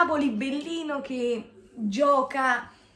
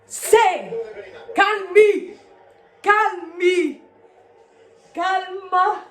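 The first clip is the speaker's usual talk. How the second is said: shouting; 2 semitones higher, 5 dB louder, much slower than usual. Real, not acted. Fan watching match, tense moment.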